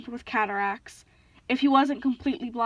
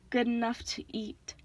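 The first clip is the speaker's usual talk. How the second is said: menacing monster; 7 dB quieter than usual. A narrator's reading. Cyclops bares teeth.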